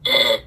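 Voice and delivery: low, loud groan of disgust; deep retching ugh. Retold or imitated. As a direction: drag it out like you smelled something rotten. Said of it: "You're like".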